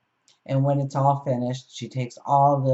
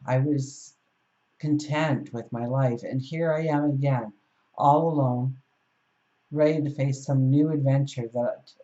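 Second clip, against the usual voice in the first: mild protest, slightly raised pitch; understated, exasperated complaint to the sky; a little angry. Acted. Castaway complaining up at the sky, a little angry. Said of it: "she's a little angry".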